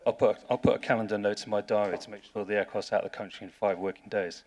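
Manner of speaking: hammed-up cheerful official promising the impossible; obliging Russian official. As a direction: play the too-helpful bureaucrat with a wink. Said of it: "And the Russian says".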